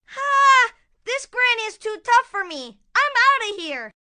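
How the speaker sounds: hammed-up alarm; defeated villain fleeing. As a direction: give up in a cartoonish panic. Wolf beaten, flees.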